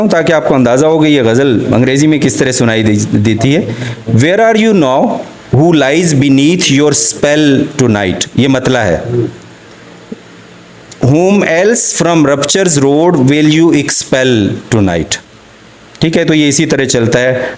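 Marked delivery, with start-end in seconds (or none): 4.1-8.3 drawn-out, measured English verse reading; slow ghazal recital. Acted. Recites Agha Shahid Ali ghazal. 11.0-15.2 drawn-out, measured English verse reading; slow ghazal recital. Acted.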